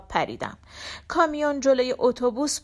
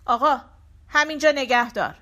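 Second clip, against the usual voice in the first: short, louder, menacing order; curt and threatening; 2 semitones higher, 5 dB louder than usual. Retold or imitated. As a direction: clip it like a threat. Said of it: "بلند و مختصر و تهدیدآمیز گفت". (کوتاه، بلند و تهدیدآمیز)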